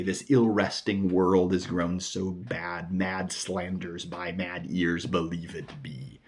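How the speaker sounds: slow, measured verse recitation; poem reading. Acted. Teacher quoting what the poet goes on to say, poem reading. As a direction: read the verse out deliberately. Reads the sonnet aloud.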